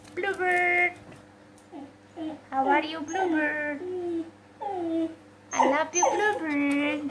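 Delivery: sing-song pet-talk with stretched endings; affectionate cooing. Real, not acted. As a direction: greet your bird lovingly. (sapaan sayang mendayu)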